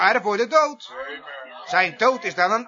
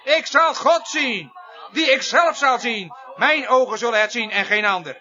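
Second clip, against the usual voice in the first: forceful preaching. Acted. Preacher proclaiming Job will see God, forceful preaching. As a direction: hammer out each word from the pulpit. Preacher declaims Job's words.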